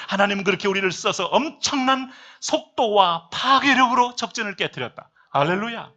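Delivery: loud, driving sermon delivery; urgent exhortation to a congregation; full-force preaching. Real, not acted. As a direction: preach it hard, building to big emphatic peaks.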